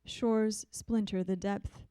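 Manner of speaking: even, measured recital; steady poetry-reading voice; poem reading. Acted. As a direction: give each line its own breath. Reads another poem.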